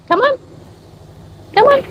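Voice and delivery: very high coaxing come on; calling the dog. Real, not acted. Owner coaxing the dog outside, very high call.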